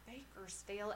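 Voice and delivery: imitated southern twang; mock southern accent. Podcaster mocking how TV characters name the town, southern accent. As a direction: say it as locals mimicking a southern accent. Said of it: "they say it with a southern accent".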